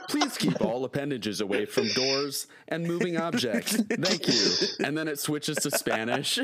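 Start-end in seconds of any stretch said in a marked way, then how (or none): 0.1-4.5 theme park announcer. Retold or imitated. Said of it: "I'm hearing it in the same cadence".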